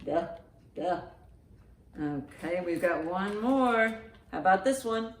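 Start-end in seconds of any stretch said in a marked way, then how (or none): none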